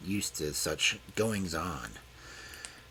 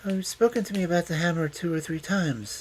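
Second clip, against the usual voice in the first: calmly; 10 semitones higher, 3 dB louder than usual. A narrator's reading. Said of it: "said Loveday calmly".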